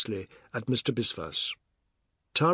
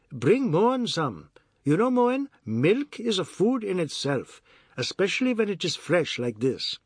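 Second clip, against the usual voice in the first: reverent, lecturing Ajoda; 6 semitones higher than usual. Acted. Ajoda praises milk.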